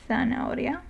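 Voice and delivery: soft "zanahoria." opening with tongue-tip TH. Shown as a demonstration. Teacher repeating the carrot example, "zanahoria." with TH for Z. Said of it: "it's like the T H in thing".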